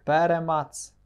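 "Перемац" stressed on the opening ПЕ; "Перемац" as PE-re-mats, falling after PE; stress on first syllable. Shown as a demonstration. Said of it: "Такий наголос".

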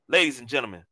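booming circus ringmaster intro. Acted. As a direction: announce him like a big top act. Announcing guest like a ringmaster.

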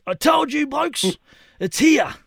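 imitated fired-up insistence. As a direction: imitate a worked-up old man proving his point. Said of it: "He's all fired up".

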